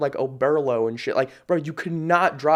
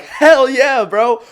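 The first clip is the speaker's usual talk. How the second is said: loud, much higher hype shout; hyped cheer; 9 semitones higher, 11 dB louder, much slower than usual. Retold or imitated. Cheering on his client over the phone, loud hype. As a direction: cheer him on at full volume. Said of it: "I'm like".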